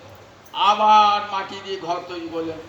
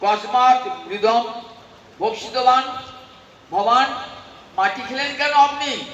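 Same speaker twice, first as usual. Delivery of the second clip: angry mother; 3 semitones higher than usual. Acted. Mother scolding Gopal for eating mud, shouting. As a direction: scold the child hard, demanding why. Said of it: "রেগে বলছেন".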